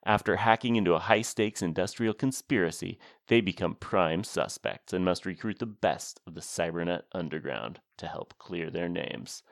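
lightly played movie trailer announcer. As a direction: read it like a half-laughing trailer voice. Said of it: "I was trying to do an announcer voice, but it was more of a laughing announcer voice".

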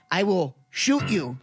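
slow, low warning; deliberate threat. Acted. Mobster warns companion to stop interrupting, slowly threatening. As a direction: space the threat out word by word.

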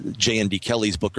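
ordinary delivery

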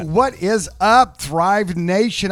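slow, loud, stretched-out shout-out; hype greeting. Acted. Co-host greeting the radio audience, drawn-out hype. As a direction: stretch it out to fire up the crowd.

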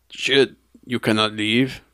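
slow attempt at a German accent; half-successful mock German; badly faked German accent. Nazi zombies stopping escapers, bad German accent. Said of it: "I can't do German accent".

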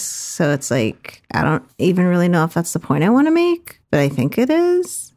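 vocal fry with uptalk. Pretend. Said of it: "add, like, an upward inflection".

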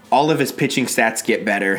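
usual speaking voice

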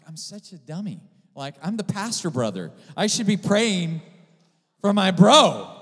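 mock-exasperated self-scolding that builds loud; self-reproach building to shout. Preacher scolds himself for not praying for brother, exasperated, building loud. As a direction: start at talking level, swell to a high, loud cry.

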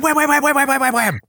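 high, rapid wham sound effects; punch noises. Retold or imitated. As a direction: land each wham like a hit. Mimicking fight blows.

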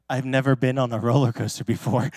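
put-on a small scared boy before the drop; scared kid. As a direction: confess it like a terrified boy. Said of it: "with this straight up fear in his eyes".

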